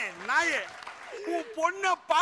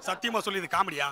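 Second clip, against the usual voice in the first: sobbing, lower-pitched question; comic crying; 8 semitones lower than usual. Acted. Jilted groom told he seems to laugh, crying. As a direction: ask it through hammed-up sobs. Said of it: "நான் அழுவுறேன்டா".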